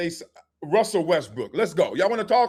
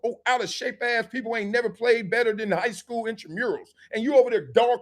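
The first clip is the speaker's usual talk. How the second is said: raised-pitch mock telling-off; indignant scolding; 5 semitones higher than usual. Scolding parents who curse the referee at youth games, indignant. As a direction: scold them in rising exasperation.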